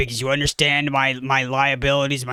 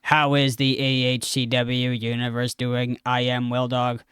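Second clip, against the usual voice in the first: Will Dog impression. Shown as a demonstration. Auditioning with an impression for the host, robotic Will Dog impression. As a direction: deliver it like a monotone robot. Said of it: "You wanna hear my impression of Will?".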